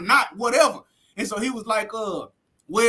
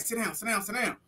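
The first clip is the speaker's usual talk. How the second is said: hushed urgent command; 9 dB quieter than usual. Retold or imitated. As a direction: hiss it at him, the guard is coming. Cellmates hushing him during the raid.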